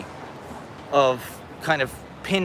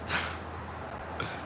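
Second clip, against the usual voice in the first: soft, airy laugh; embarrassed laugh; 14 dB quieter than usual. Real, not acted. Streamer taken for a Trumper, embarrassed laugh. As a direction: laugh quietly at your own mess.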